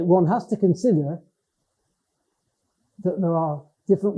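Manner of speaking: measured committee-meeting speech; formal register. Shown as a demonstration. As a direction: address a governing body formally. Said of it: "I use words I'd never use in those other informal situations".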